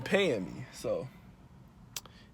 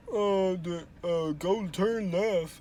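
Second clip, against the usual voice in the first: slow, robotic mock Siri, higher pitched; imitating Siri; 7 semitones higher, much slower than usual. Vlogger mocking his phone's directions, slow robotic Siri voice. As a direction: drag it out like a clunky phone GPS. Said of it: "but she like".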